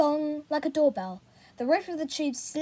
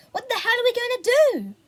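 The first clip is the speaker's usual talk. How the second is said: high, loud desperate question; panicked cry; 10 semitones higher, 7 dB louder than usual. A narrator's reading. Boy finding no army or police, high panicked cry. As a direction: let the panic spill over.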